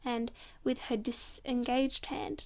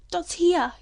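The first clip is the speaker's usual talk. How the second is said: loud, high yell; 5 semitones higher, 10 dB louder than usual. Acted. Young man yelling the news toward the house, loud high yell. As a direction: yell it across the paddock. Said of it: "yelled the young man".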